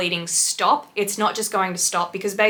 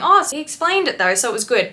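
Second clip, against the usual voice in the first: mocking own words; 5 semitones higher, 3 dB louder than usual. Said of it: "I was defending the piercer just before saying".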